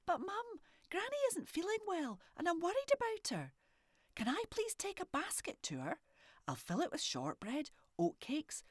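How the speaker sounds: put-on high little girl pleading. A narrator's reading. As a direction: beg her mum in a high wee voice. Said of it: "Morag pleaded".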